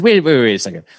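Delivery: exasperated boss reliving it, raising his voice; retold angry outburst. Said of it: "And I'm getting pissed".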